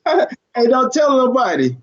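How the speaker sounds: high, giggly don't-tell; laughing mock hush. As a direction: keep the secret through a laugh. Joking hush after teasing.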